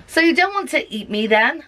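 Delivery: high, hopeful little alien question; a hint of a timid alien; nervous alien. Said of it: "the little alien asks".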